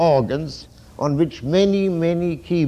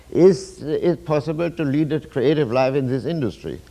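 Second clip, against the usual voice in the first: hopeful, upbeat reading of the question; optimistic tone. Shown as a demonstration. Lecturer demoing the optimist's way of asking, upbeat. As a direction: ask it as if the answer is surely yes. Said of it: "I'm going to tell you how this theme runs with the optimeter".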